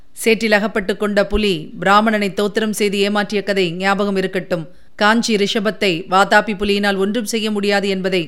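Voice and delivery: measured, even document-reading voice; reading a letter. A narrator's reading. Scribe reading a seized letter to the king, formal. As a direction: read the message out formally, without character emotion. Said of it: "அவன் ஓலையை படிக்கலானான்".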